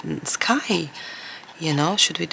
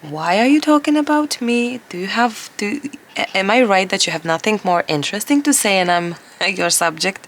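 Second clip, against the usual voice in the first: teasing husband voice. Retold or imitated. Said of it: "He's like".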